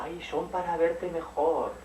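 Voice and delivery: slow wolf reply; wolf answer. Acted. Wolf answers the girl, slow and sly. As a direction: drag out the wolf's sly answer. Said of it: "Y dijo el lobo".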